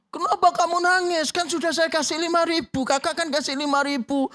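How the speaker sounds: put-on teacher puzzled by the child crying harder. Guru bingung anak menangis. (guru bingung, suara tinggi)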